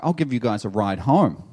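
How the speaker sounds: ordinary delivery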